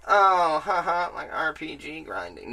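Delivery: bursts out loud, then laughs through the words; amused, half-laughing realisation. Retold or imitated. Gamer laughing at the game's pun, loud then giggly. Retelling his own amused reaction.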